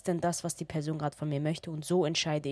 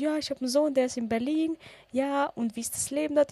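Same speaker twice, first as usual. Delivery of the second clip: high, light friendly voice; high sweet man voice; 9 semitones higher than usual. Retold or imitated. Kind man talking about his son in Berlin, high and sweet.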